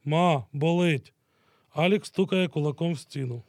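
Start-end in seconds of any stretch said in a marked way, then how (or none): 0.0-1.1 slow pained cry from behind a wall; wounded soldier crying out for his mother, slow and pained. Acted. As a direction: drag it out like a wounded man calling for his mother. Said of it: "Невідомий голос кричить за стіною".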